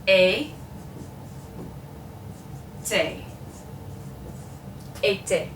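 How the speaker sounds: "Été" as a clear AY-TAY. Shown as a demonstration. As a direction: sound out both AY vowels of "Été". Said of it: "brings it up just a bit".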